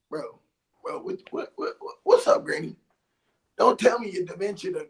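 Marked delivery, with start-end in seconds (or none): 0.1-2.8 hushed nervous whisper. Retold or imitated. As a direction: whisper it, freaked out. Confronting granny, whispered.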